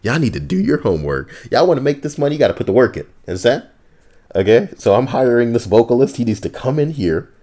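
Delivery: high, fast sleazy boss rant; hustler boss. Pretend. Playing a sleazy choir boss.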